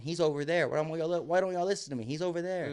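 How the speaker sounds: dog insisting nobody listens; talking dog. Retold or imitated. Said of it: "it's like she's saying".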